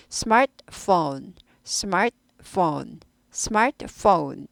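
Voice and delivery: slow "스마트폰" with a short clipped stop on the t; staccato t. Shown as a demonstration. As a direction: cut the t short and move straight on to phone. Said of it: "스타카토식으로 잠깐 끊고 넘어갑니다".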